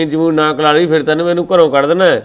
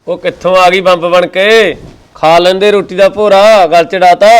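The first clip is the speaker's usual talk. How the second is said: irritated complaint; 3 semitones higher, 3 dB louder than usual. Acted. Uncle irritated by sister-in-law.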